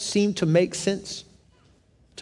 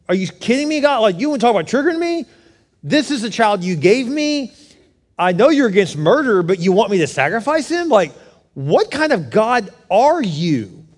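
acted indignation, higher-pitched; ticked off; 4 semitones higher than usual. Preacher imagining himself arguing with God over Isaac, ticked off. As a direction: go off on God in exasperated disbelief. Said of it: "I would have been ticked off at God".

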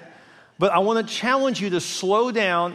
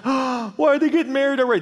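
higher-pitched jealous complaint; mock upset; 7 semitones higher than usual. Jealous friend hearing of an engagement, mock upset. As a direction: imitate envy at a friend's news. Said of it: "We get so upset when someone gets blessed".

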